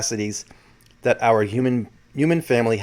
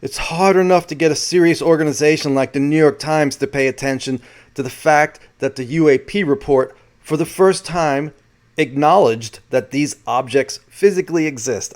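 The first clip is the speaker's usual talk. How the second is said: lightly imitated New York accent, slightly higher; 4 semitones higher, 4 dB louder than usual. Reporter telling Danny about mainstream coverage, light New York accent. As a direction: quote him with a touch of New York. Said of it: "with his New York accent".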